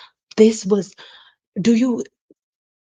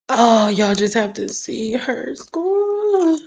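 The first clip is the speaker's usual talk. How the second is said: voice breaking; 4 semitones higher, 4 dB louder, slower than usual. Real, not acted. Overwhelmed by the school photo.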